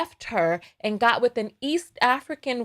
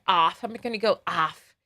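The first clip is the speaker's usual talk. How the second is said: Midwest off; 3 semitones lower than usual. Shown as a demonstration. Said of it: "Like you people in the Midwest would say".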